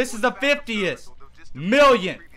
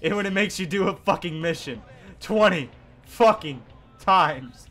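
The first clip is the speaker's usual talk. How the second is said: sarcastic. Real, not acted. Ironic praise.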